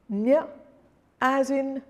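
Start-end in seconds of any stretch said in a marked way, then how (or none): 0.1-0.5 Ñ as a short rising "nya"; higher, isolated Ñ with a Y glide; Ñ sound. Shown as a demonstration. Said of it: "becomes ñ".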